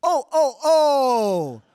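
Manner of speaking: very loud, high hammed-up Santa; loud mock Santa greeting read wrong. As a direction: belt the botched Santa line. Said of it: "They said".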